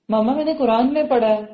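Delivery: mock confident daughter informing her mother; confident child. Child telling mother about the Quran, confidently. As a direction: tell mama with a child's assurance. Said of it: "یہ ہے confidence اولاد کا".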